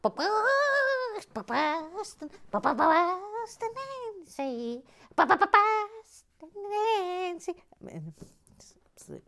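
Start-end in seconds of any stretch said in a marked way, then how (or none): 0.0-7.5 high, slow, stuttered "Ba-ba-, Boston Nancy"; Boston accent. Pretend. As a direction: ham up a stammered Boston intro. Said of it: "there's Boston Nancy up there".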